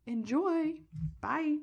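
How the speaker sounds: whispered sign-off; whispered goodbye. Real, not acted. Host signing off to listeners, whispering.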